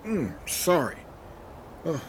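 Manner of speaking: breathy whispered excuse. Acted. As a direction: whisper it so nobody hears. Sneezy janitor whispers excuse.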